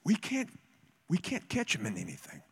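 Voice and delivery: mock Pharisee, starting very high then dropping. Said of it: "I have a Pharisee voice".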